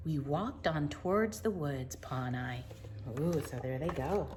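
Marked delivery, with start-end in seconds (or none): 2.0-2.6 hushed, soft ending; soft storybook whisper. Acted. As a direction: breathe it out quietly.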